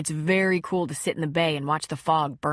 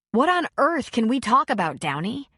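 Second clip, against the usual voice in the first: angry; 5 semitones higher, 3 dB louder than usual. Acted. Ashley angry at ex.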